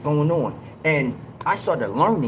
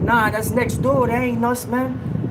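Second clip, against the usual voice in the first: calling out; 8 semitones higher, 3 dB louder than usual. Retold or imitated. Answering officers across cells.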